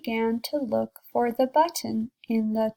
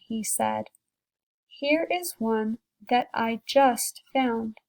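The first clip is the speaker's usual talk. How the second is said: storybook read aloud to a class; teacher reading a picture book to kids, gentle storytelling; reading to children; slower than usual. A narrator's reading.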